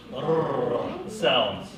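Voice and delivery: "Rrr" as a long trilled R; rolled R. Shown as a demonstration. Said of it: "use rolled R's".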